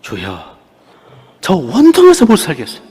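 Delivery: high, loud pleading wail; anguished cry to the Lord. Retold or imitated. Preacher acting out her anguished prayer to the Lord, high wailing plea. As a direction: cry out in anguish before God.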